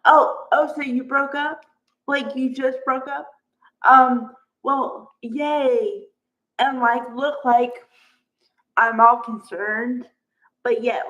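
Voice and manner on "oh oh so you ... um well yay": mock fake cheer. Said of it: "I wouldn't go".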